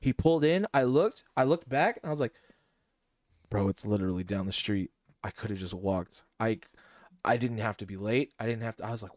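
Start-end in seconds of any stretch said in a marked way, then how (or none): 3.5-8.8 deflated disbelief. Retold or imitated. Retelling realization he could have walked.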